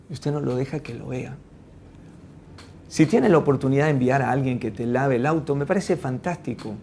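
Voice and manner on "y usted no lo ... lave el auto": ordinary talk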